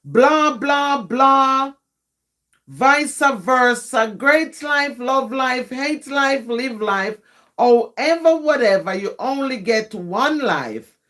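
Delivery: rhythmic, rhyming spoken-word delivery; poem recital. Acted. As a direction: recite it line by line, punching the openings and easing down at the end.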